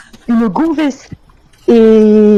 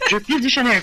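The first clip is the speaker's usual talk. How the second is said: en riant; 2 semitones higher, 6 dB quieter than usual. Real, not acted.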